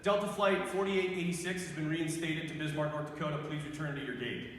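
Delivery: lightly imitated airline gate announcement; intercom announcer. Intercom voice calling passengers to the gate, light announcer imitation. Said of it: "over the intercom comes this voice".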